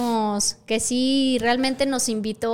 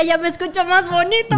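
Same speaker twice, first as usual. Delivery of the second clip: sensual voice; 4 semitones higher, 4 dB louder than usual. Pretend. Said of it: "Con voz sensual".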